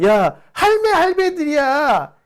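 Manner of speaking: high, emphatic Busan dialect rant; Busan friend. Retold or imitated. Friend scoffing at old voters, high Busan dialect. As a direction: scoff like a fed-up Busan local. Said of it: "그러면서 하는 얘기가".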